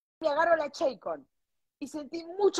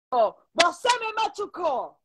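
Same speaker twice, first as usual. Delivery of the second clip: slow, broken Spanish with a Brazilian lilt; imitated Portuguese speaker; 4 semitones higher, much slower than usual. Retelling the Brazilian boyfriend's words, in mock Portuguese-accented Spanish. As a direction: mimic the Brazilian boy's clumsy Spanish, slowly. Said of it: "Y le digo".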